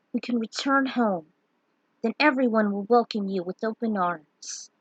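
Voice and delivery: a hint of a kind friend reassuring her; reassuring Furion.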